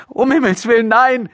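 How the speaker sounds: put-on very high, horrified girl's cry; calling out. A narrator's reading. Daughter denying her father's accusation, high appalled cry. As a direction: cry out your denial. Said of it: "rief Maria".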